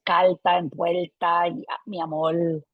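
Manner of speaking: R turned into L in calta and vuelta; lateralized R. Shown as a demonstration. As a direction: end mi amor on an L, like amol. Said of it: "the lateralization".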